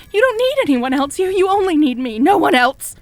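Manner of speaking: cling to him, voice rising; creepy calm cultist. Acted. Possessive plea to master.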